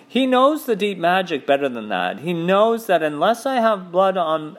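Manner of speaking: high, cutting witch accusing; cold witch voice. Acted. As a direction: accuse him like a cold queen. Witch threatens the Narnians.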